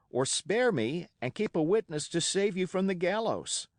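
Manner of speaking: put-on a boy's bold, racing challenge to pirates; excited defiance. A narrator's reading. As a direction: fling it at them all, fired up and fearless. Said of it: "by this time I was quite excited".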